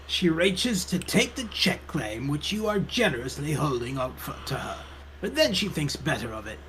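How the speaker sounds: measured storytelling read; game narration. A narrator's reading. Narrator describes librarian fetching a book, story narration. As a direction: narrate the scene step by step.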